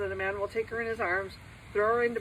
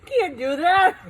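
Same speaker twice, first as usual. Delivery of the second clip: loud cry; 9 semitones higher, 13 dB louder, slower than usual. Real, not acted. Loud outcry in the video.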